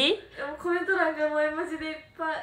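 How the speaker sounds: excited complaint. Real, not acted. Reacting to bug emoji comments.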